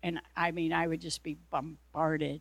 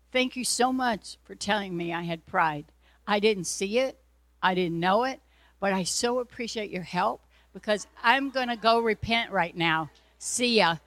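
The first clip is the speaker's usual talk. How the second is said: louder breezy sarcastic thank-you; mock thanks; 5 dB louder than usual. Preacher thanking the devil breezily, louder mock gratitude. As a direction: cheerfully dismiss the accuser.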